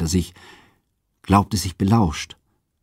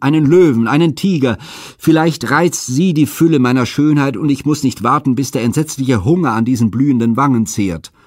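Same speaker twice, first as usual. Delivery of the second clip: higher and louder, rising desperation; despairing cry; 5 semitones higher, 5 dB louder than usual. A narrator's reading. Europa begs the gods to send beasts, crying in despair. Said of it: "rief sie verzweifelnd".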